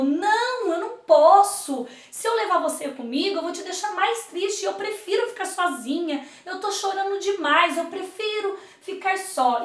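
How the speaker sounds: sad refusal. Acted. Sadness refusing Love's plea, mildly sorrowful. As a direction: turn him down sorrowfully. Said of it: "Aí ela falou".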